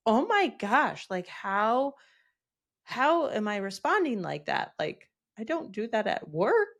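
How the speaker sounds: acted self-bewilderment. Parent shocked at losing their marbles, mock dismay. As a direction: question yourself in hammed-up disbelief. Acts parent baffled by own outburst.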